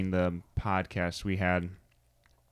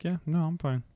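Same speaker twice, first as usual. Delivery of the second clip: mock child voice, pitched up; imitated defiant child; 4 semitones higher than usual. Mom voicing her strong-willed daughter refusing to back down, lightly defiant.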